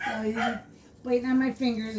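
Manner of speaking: normal talking voice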